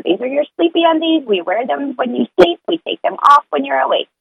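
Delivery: walk the little one through bedtime; a parent introducing the sleepy undies to her child; talking to a toddler. Retold or imitated.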